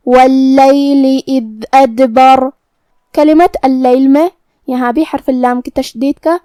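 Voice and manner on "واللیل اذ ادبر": slow chanted verse with doubled lam in واللیل; measured Quranic chant; tajweed recitation. Shown as a demonstration. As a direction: recite it slowly and melodically. Recites verse after rules.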